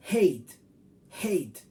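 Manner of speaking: hate said as English /eit/ with the ei glide. Shown as a demonstration. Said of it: "se pronuncia hate". (pronuncia hate como en inglés, con ei)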